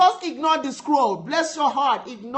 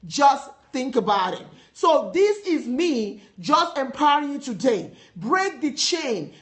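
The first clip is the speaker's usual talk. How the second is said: emphatic, driving sermon delivery; preaching. Real, not acted. Preacher urging listeners to keep their eyes on Jesus, preaching. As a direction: preach it with firm conviction.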